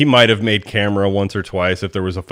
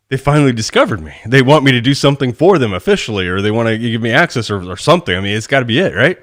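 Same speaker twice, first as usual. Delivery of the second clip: excited, hopeful thought retold; retold excitement; 3 semitones higher, 4 dB louder than usual. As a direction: relive the thrill of being discovered. Thrilled thought on getting the call.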